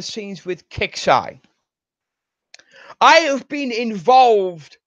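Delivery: real anger, spitting every fucking; angry rant. Real, not acted. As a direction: confrontational outburst aimed at the whole community. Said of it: "I've gotten angry".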